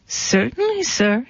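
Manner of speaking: nervously deferential little goat; frightened stammer. A narrator's reading. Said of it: "he stammered".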